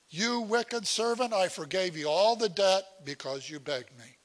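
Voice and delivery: stern king. Acted. King rebukes servant, retold again.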